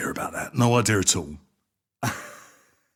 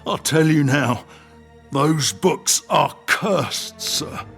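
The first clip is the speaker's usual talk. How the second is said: loud, higher-pitched, desperate giving in; frightened warning; 6 semitones higher, 7 dB louder than usual. Acted. Innkeeper warns the gunman about cursed books, frightened and loud. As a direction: warn them urgently, under threat.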